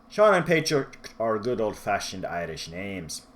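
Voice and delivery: badly imitated Irish accent; amateur stab at an Irish accent; horrible Irish accent. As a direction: put on a hammy Irish brogue. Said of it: "doing horrible Irish accents throughout this review".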